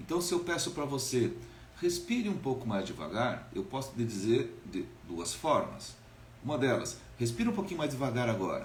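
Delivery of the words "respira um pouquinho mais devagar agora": fast, rushed, rattled-off delivery. Showing an incongruent request to breathe slower, spoken quickly. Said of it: "Eu falei rápido".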